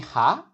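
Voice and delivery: HA rising like a question. Shown as a demonstration. Teacher likening a tone to an English question, HA rising. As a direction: lift the pitch through HA. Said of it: "Your voice naturally rises".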